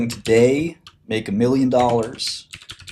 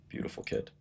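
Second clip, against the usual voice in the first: breathy unvoiced whisper; whispered aside; 18 dB quieter than usual. Real, not acted. Whispering a joke about the newborn kid, hushed.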